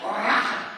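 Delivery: "Rah" rolled, with a laugh breaking through. Shown as a demonstration. Preacher laughing as he rolls the R in "Rah". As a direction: growl "Rah", then laugh at it. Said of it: "everybody needs to say that".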